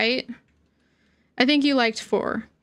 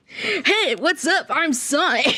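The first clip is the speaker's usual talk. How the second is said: brighter, higher cocky Sonic greeting, breaking into a laugh; second Sonic attempt; 3 semitones higher, slower than usual. Trying out Sonic's voice for the mod, a bit higher and laughing. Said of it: "I have to get the Sonic voice".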